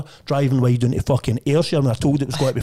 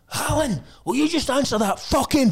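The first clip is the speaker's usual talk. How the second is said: retold shout; 12 semitones higher than usual. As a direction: bark at the new junior to pick up. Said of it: "Linda shouting to me".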